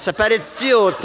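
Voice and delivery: high, giggling embarrassment; laughing Montréal lady. Retold or imitated. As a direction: laugh it out, caught.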